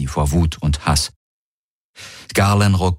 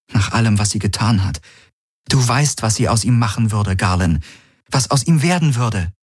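put-on higher, urgent young woman; 5 semitones higher than usual. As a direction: press him, a bit higher. Kirai pleading with Galen.

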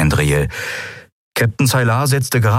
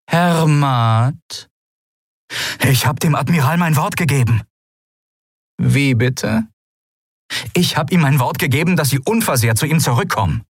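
voiced pirate dialogue; 7 semitones higher than usual. Narrator voices characters in dialogue.

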